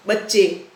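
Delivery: बच्चे with a clear final e sound; teacher demo of बच्चे; singular to plural ending. Shown as a demonstration. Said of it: "बच्चा की जगह क्या हो जाएगा".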